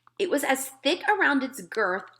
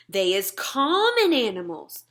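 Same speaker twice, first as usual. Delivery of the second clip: contemptuous. Acted. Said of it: "said the B F G contemptuously".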